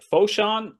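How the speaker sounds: high, loud unsure "Foshan?"; puzzled question. Retold or imitated. Lost American asks driver, puzzled high question. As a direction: ask "Foshan?" in confusion.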